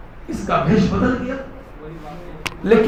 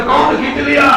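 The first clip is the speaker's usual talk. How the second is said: indignant demand; 3 semitones higher than usual. Acted. Friend of robbed ATP, indignant demand. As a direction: demand to know who did it. Acted friend angry at the theft.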